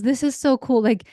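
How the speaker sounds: mock the eldest son's fed-up sarcasm, up and loud; sarcastic annoyed teen. Eldest son in the back seat mocking the noises, sarcastic and loud. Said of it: "He was totally annoyed with these noises".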